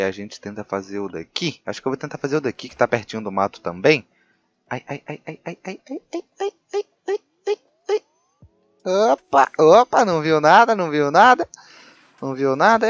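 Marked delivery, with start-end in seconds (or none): 4.7-8.0 quiet whimpers climbing into high squeals; rising panicked whimper. Real, not acted. Hiding as the dinosaur approaches. 8.8-12.9 high, loud relieved chatter; relieved exclamation. Real, not acted. Relief at not being spotted.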